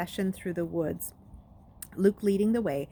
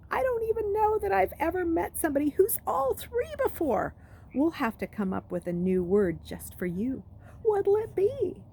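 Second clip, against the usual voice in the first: taunting bully; 4 semitones higher than usual. Acted. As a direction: relish every insult. Jackal Boy taunting.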